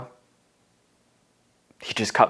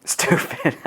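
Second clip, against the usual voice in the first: quoted brother; 6 semitones higher than usual. Retold or imitated. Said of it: "He would always say".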